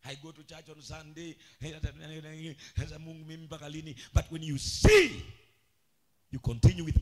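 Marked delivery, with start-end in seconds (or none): 0.0-3.9 mock lamentation. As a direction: grumble a churchgoer's lament under your voice. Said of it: "you start all kinds of lamentation".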